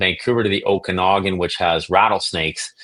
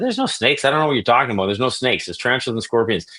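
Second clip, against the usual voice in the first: put-on much higher, hurried innocent-kid voice; defensive kid denial; 4 semitones higher, faster than usual. Teen lying to his father about the snake, high panicky denial. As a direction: squeak out a panicked cover story.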